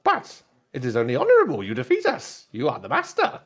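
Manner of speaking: lightly voiced pit droid; a hint of formal droid servant. Droid insists to its new master, lightly voiced droid. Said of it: "best describe as a pit droid".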